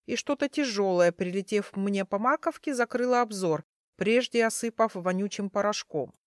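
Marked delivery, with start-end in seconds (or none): none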